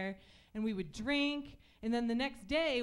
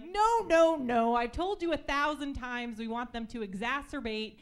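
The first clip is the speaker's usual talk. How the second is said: bossy executive; 4 dB louder than usual. Retold or imitated. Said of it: "they're like".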